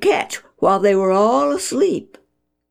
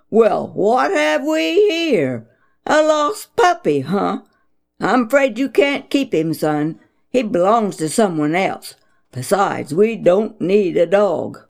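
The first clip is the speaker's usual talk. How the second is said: mock booming dad. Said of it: "he boomed".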